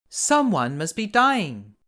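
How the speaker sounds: high, slow and sorrowful; a little girl sensing death; slow, hushed dread. A narrator's reading. Girl sees a star fall, slow and sorrowful.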